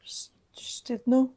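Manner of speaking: Szczytno slowly, stumbling on a whispered shch opening; tentative Polish attempt. Real, not acted. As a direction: try out Szczytno haltingly, rising as a question. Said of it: "Yeah, almost".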